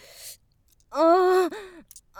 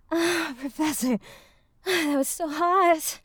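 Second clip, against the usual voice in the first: afterglow. Acted.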